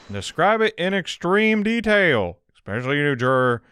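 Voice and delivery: loud, slow judge's order; slow and stern; commanding judge. Acted.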